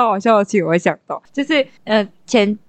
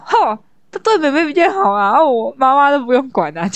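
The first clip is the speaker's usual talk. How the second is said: sulky complaint; 3 semitones higher than usual. Retold or imitated. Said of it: "她就在生气".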